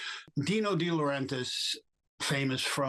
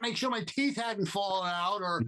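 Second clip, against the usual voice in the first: indignant outburst; 9 semitones higher than usual. Retold or imitated. Actor protesting to the director at the audition, indignant outburst. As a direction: throw it back at him, fed up and incredulous.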